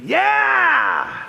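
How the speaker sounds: high mock-excited yeah; imitating an eager yeah. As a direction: copy a friend's sudden burst of enthusiasm. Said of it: "Cole ... went".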